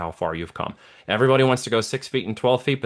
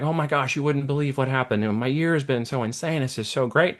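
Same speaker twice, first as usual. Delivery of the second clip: higher, bubbly rush of good news; gushing excitement; 5 semitones higher than usual. Retold or imitated. Man back at the bench telling the old man, gushing excitement. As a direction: spill it all out, thrilled.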